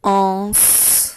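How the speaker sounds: ANSE held, with a long final s; dictation. Shown as a demonstration. Teacher dictating the second syllable to pupils, dictation voice. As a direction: dictate ANSE as one drawn-out, isolated syllable. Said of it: "les syllabes deux fois".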